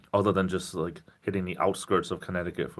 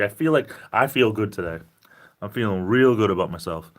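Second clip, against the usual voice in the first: high energy; 5 dB louder than usual. Real, not acted. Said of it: "I'm just trying to have a lot of energy".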